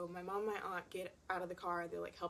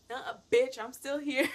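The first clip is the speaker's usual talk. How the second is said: aunt's gotcha; 6 semitones higher, 10 dB louder, slower than usual. Retold or imitated. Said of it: "My aunt's like".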